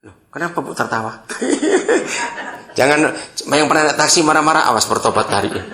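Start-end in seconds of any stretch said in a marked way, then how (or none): 1.3-2.7 a bright high burst of laughter. Real, not acted. Preacher laughing with the woman in the audience. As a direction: laugh along with the congregation.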